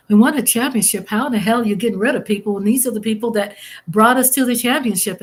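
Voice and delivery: reliving the anger at the front office; heated quote of her own complaint; retold outrage. Retold angry complaint to team.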